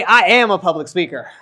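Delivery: loud, confident declaration; rallying affirmation. Shown as a demonstration. Coach leading the audience in an affirmation, loud and confident. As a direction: declare it for the crowd to echo.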